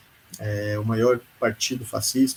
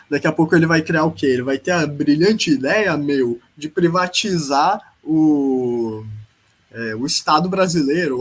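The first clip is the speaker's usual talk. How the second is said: louder, lightly put-on São Paulo Faria Limer accent; mock Faria Limer accent; 4 dB louder than usual. Podcaster mocking a politician's privatization ideas, in a Faria Limer accent. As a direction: tease with a Faria Limer accent, stretching the last word. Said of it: "eu tô fazendo esse sotaque".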